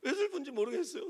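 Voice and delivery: high, loud retold crying plea; mock tearful wail. Preacher voices pupils crying to their teacher, mock tearful wail. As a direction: imitate weeping pupils wailing to their teacher. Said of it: "애들도 막 울고".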